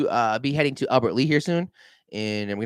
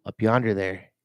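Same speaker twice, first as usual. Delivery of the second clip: lightly drawled Southern up yonder there; mild Southern twang, unhurried; 4 semitones lower than usual. Shown as a demonstration. Vlogger repeats the phrase in a light Southern drawl. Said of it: "I'm using a lot of Southern drawl".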